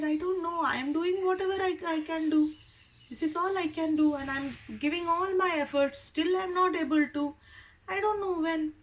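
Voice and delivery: a struggling pupil pleading that he's trying his best; frustrated boy. Acted. Frustrated boy telling his guru he can't keep up.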